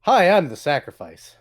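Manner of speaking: strained cheerful hello that drops away; forced-smile greeting. Acted. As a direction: greet through a forced smile, then deflate. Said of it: "forces what you would ... smile, and goes".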